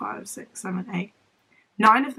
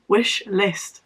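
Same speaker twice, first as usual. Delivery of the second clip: whisper. Real, not acted. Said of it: "whispered aside".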